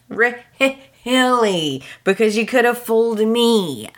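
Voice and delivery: "Really?" pitched high and drawn out, falling at the end; a disbelieving, sarcastic "Really?"; scoffing at Quinn's promise to Eric; incredulous. Real, not acted. Doubting Quinn's vow to Eric.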